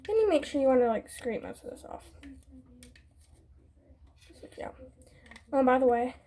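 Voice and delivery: out of breath, gasping; catching breath between words; gasping between phrases. Real, not acted. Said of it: "I'm out of breath, y'all".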